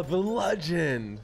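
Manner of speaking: slow, stretched, hyped "legend"; drawn-out hype. Real, not acted. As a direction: drag out "the legend" like an announcer. Hyping teammate's legend ping.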